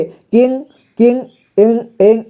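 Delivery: किंग said with a ringing nasal इंग ending; nasal ing sound shown. Shown as a demonstration. Teacher showing pupils how किंग sounds, with a nasal इंग ending. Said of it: "इस type से आवाज़ आएगा इसका".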